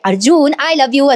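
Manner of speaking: slow, drawn-out mild mock yell; retold shout. Shy wife plucks up courage to declare love, mock shouting slowly. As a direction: stretch it out like a restrained call. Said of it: "असं ती मोठ्याने ओरडून म्हणते".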